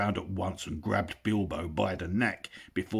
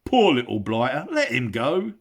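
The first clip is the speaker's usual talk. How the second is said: loud troll voice, softened by pity; full of beer, a bit sorry for him; 6 semitones higher, 8 dB louder than usual. Acted. William pities Bilbo, loud troll.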